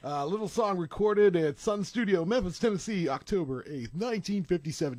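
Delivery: lightly voiced old-time radio announcer; a hint of vintage radio host; oldie-timey radio voice. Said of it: "Do you like my oldie-timey radio voice?".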